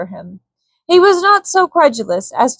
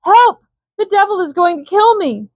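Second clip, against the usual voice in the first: terrified shriek; 10 semitones higher than usual. A narrator's reading. Malbin shrieks to Korak as the elephant attacks, terrified. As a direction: scream as the elephant grabs you. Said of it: "He shrieked aloud to Korak".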